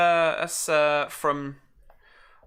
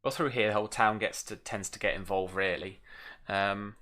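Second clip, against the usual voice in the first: put-on Norfolk accent. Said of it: "My Norfolk accent".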